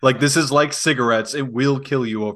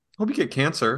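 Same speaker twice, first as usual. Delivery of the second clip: put-on dead calm, soft, flat, emotionless delivery; 5 dB quieter than usual. Describing online players who threaten calmly, imitating a calm, emotionless threat. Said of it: "very calm, no emotion whatsoever".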